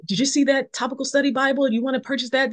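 excited bible nerd. Retold or imitated. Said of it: "you know".

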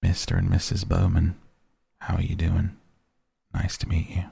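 put-on understated soft Southern accent for the visiting biologist. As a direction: greet them gently with a Southern lilt. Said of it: "saying in a soft Southern accent".

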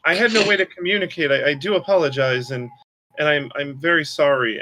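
high, flustered apology; flustered spirit. Acted. Squirrel spirit apologizes to the suspicious party, high and flustered.

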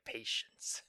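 hushed, slow, like a dark mentor; calm gentle wise voice. Retold or imitated. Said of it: "Darth Vader's all like".

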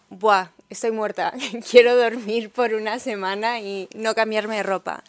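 loud, laughing, worn-out groan; exhausted complaint. Retold or imitated. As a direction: sound dead tired but amused. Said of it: "era como". (queja agotada entre risas)

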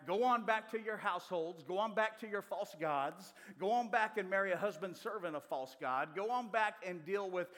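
loud preached paraphrase of Naomi pushing them off; mild mock send-off, pushed out loud; Naomi sending them away. Preacher voicing Naomi telling daughters go back, loud. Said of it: "is basically what she's saying".

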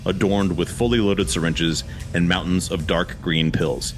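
reading the scene directions in a steady storyteller voice; script narration. A narrator's reading. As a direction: set the scene like a movie script. Reads screenplay action lines.

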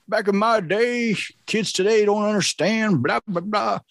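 high, slow mock of a cranky elder; grumpy old-timer. Mocking boomers who complain about kids, high cranky whine.

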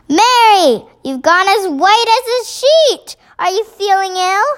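high, startled queen voice; high-pitched alarm. A narrator's reading. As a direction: exclaim with rising concern. Queen alarmed at maid's state.

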